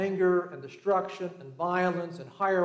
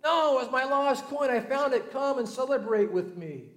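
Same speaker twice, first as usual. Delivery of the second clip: higher, louder, gushing insistence; excited insisting; 6 semitones higher, 3 dB louder than usual. Acted. Woman urging doubtful neighbors, higher and louder in excitement. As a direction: press them to share the joy.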